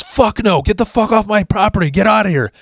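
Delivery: high, screeching angry mom voice; mock shrill yelling mother; angry redneck mom. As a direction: shriek it like a furious trashy mom. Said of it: "And she goes".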